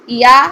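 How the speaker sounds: یا pressed hard and slow with friction; teacher showing a faulty یا; wrong hard ya. Shown as a demonstration. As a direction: demonstrate the mistaken stiff یا. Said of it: "غلط".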